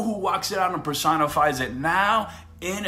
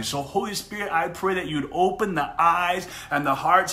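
earnest prayer. Real, not acted. Preacher praying over viewers watching live, earnest prayer. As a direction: pray over the listeners with conviction.

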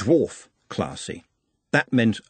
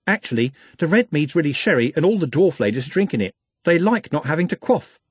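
confiding, lower class; 5 semitones higher than usual. Acted. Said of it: "lowered her voice by a few decibels and three social classes".

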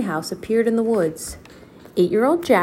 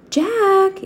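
loud, high call through the woods; 12 semitones higher, 5 dB louder than usual. Acted. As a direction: call him from far off. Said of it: "Annie called from the woods".

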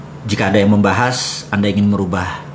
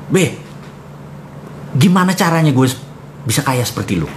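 pleading question; 4 semitones higher than usual. Retold or imitated. Asking Babe how to be rich.

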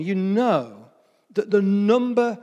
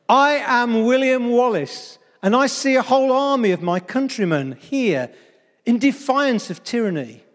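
rousing battle speech, pitched up; rally an army with big, measured declamation; William Wallace; 5 semitones higher, 3 dB louder than usual. Acted. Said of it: "these are words of William Wallace from the film".

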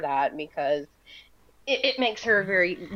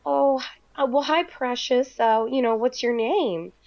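lightly voiced sweet old lady, higher; a hint of a kindly church lady greeting a child; mild sweet-lady voice, somewhat higher; 6 semitones higher than usual. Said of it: "sweet Miss Flo ... she said".

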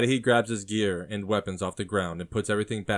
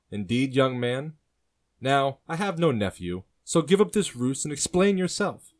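louder, higher, growing menace; darkening tone; 6 semitones higher, 7 dB louder than usual. A narrator's reading. Uncle rejecting the stranger's claim, voice darkening. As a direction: warn him off, voice hardening. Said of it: "with his tone becoming darker".

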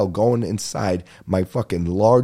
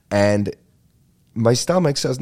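usual speaking voice

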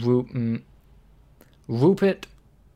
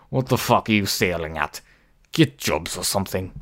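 calm and deadpan; 2 semitones lower, 3 dB louder than usual. Acted. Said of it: "Man, calm and deadpan".

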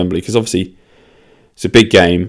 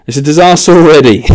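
real laugh through the words, louder and higher; cracking up at the jinx; amused despair; 8 semitones higher, 8 dB louder than usual. Real, not acted.

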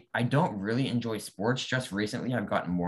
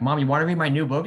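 mock innocent offer; 7 semitones higher, 7 dB louder than usual. Teasing mom with murder plot.

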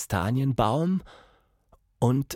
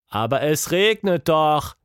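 put-on higher, louder protesting child; raised-voice childish objection; calling out; 6 semitones higher, 5 dB louder than usual. A narrator's reading. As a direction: call it out in protest. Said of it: "rief Tilda".

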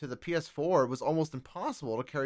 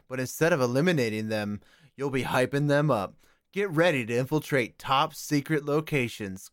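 video game ad. Acted. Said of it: "let's have a word from our sponsors".

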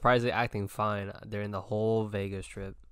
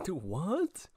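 mock high squeal; slower than usual. Retold friend quote, very high.

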